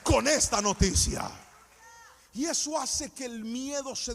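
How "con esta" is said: loud, fervent sermon over music; preaching at full force. Acted. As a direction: preach it out to the whole church. Preacher exhorting congregation.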